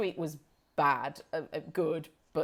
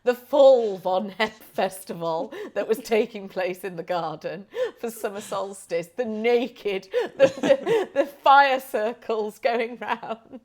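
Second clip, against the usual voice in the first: sarcastic agreement; 2 semitones higher, 7 dB louder than usual. Retold or imitated. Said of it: "I was like".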